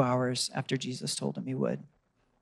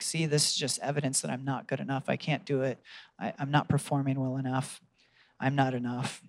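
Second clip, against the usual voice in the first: defeated inner voice; 7 dB quieter than usual. Retold or imitated. Inner voice of shame.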